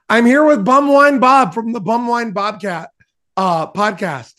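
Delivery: high, loud announcer impression; imitation of co-host. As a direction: ham up the co-host's host voice. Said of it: "you wanna see my imitation of you".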